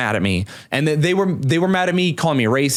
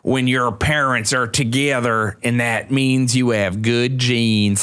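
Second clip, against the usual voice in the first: slow, lower mock Southern drawl; imitated Southern accent; 5 semitones lower, slower than usual. Retelling a singer's mocking video, put-on Southern accent. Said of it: "doing a Southern accent".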